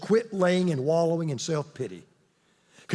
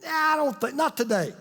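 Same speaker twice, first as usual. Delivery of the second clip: mock startled refusal; 6 semitones higher, faster than usual. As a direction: play a man suddenly backing out, half-joking. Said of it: "he said".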